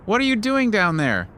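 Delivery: high, bright mock-innocent question; cheerful fake innocence. A narrator's reading. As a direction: play dumb, high and sunny. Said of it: "he calls cheerfully".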